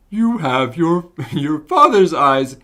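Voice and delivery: slow, stretched puppet-like delivery; attempted character voice. Greeting a young man in game, slow character voice. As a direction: draw each word out slowly. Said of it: "easier if I could do a sing-song".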